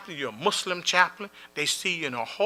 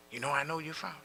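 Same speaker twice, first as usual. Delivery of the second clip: hushed, much softer question; whispered question; 14 dB quieter, faster than usual. Retold or imitated. Former inmate quietly asking the chaplain. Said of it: "he whisper".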